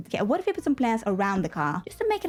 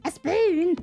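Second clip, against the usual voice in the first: sharp high disbelieving question; can't believe it's just a spoon; surprised; 8 semitones higher, 3 dB louder than usual. Real, not acted. Gamer finding a spoon in the kitchen, surprised. Debug find yields only a spoon.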